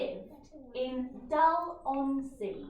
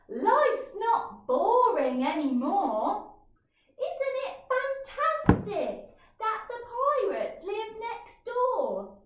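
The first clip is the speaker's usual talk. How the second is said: louder, higher and bursting with excitement; excited blurt; 7 semitones higher, 5 dB louder than usual. Acted. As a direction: blurt it out, thrilled about the pirates. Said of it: "Tilda blurted".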